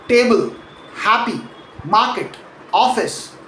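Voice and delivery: TAble, HAppy, MARket, OFfice; table, happy, market, office as separate words, each falling from a stressed start; stress on first syllable. Shown as a demonstration. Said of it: "the first syllable".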